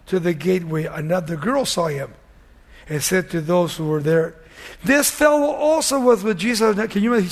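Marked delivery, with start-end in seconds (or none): 4.8-6.8 raised, higher accusing call; lightly acted outcry; mild mock scream. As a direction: call him out to the bystanders, pitched up. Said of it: "She screamed it out".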